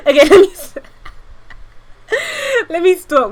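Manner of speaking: high, wheezing laugh breaking off the words; laughing fit. Real, not acted. Streamer losing it at her own joke, laughing. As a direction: crack up mid-sentence.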